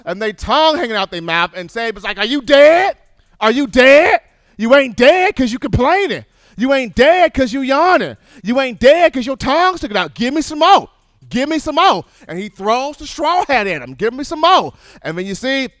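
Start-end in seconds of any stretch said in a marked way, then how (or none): 2.2-12.0 higher, loud coach barking at a player; coach yelling. Retold or imitated. 13.9-14.7 high, loud "Give me some more"; coach yelling. Retold or imitated. Coach yelling at tired player.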